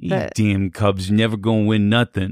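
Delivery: put-on Chicago accent. Redoing a fan's curse on the Cubs after being asked: put-on Chicago accent. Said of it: "You say it in a Chicago way".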